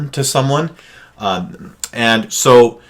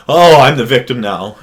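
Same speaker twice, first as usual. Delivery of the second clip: mock victim whine; 3 semitones higher, 7 dB louder than usual. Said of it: "do the emotional flopping".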